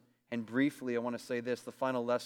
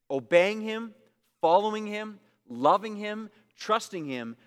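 higher and louder listing; rising preaching list; 6 semitones higher, 5 dB louder than usual. Real, not acted. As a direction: build each verb with fervour. Preaching crescendo.

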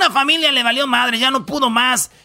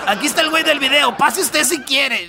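mock sign announcement, rushed then slowed; 5 semitones higher than usual. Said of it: "pongo un letrero que diga".

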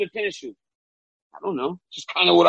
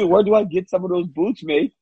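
imitating an Australian fighter's accent; botched Australian accent that sounds Indian; attempted Australian accent. Host mimics Australian fighter asking about boots, attempted Australian accent. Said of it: "The accent sounded very Indian".

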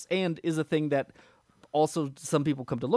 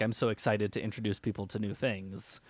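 mock excited know-it-all; 4 semitones lower, 6 dB quieter than usual. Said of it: "that XKCD comic that's like".

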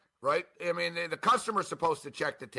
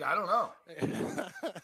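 laughing; 4 dB quieter, much slower than usual. Real, not acted. Laughing over the drunk promo.

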